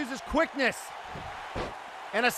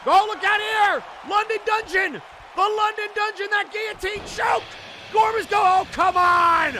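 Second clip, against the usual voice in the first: frantic shouting; 4 semitones higher than usual. Real, not acted. Commentator screaming to viewers at the surprise run-in, frantic shouting. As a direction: lose it as the surprise attackers storm in.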